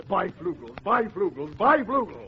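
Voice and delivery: building ad chant; repeated slogan. Retold or imitated. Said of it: "We repeated".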